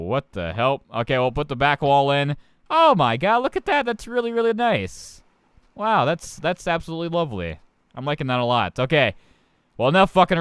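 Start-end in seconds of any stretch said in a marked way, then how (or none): 2.7-7.6 high-pitched gushing amazement; impressed delight. Real, not acted. Gamer admiring the new wall, high delighted gushing.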